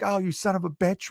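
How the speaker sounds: high-pitched mock protest; lightly acted comic exasperation; disgusted crewmates. Crewmates react to the farter, mock exasperation. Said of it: "they're all like".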